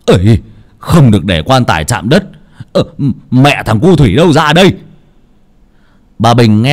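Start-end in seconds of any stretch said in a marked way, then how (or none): 0.1-4.7 urgent, raised-voice order from a grandfather; louder, pressing summons; hurried calling out. Acted. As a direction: call out a hasty warning. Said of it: "Ông nội vội vàng kêu lên".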